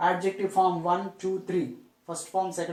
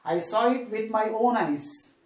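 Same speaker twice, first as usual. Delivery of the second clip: "own" emphasized within the sentence; teacher demonstrating an emphatic "own"; stress on "own"; 2 semitones higher than usual. Shown as a demonstration. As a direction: lean on "own", then drop on "eyes".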